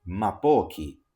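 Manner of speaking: tongue twister recital. Shown as a demonstration. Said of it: "let's start with a tongue twister".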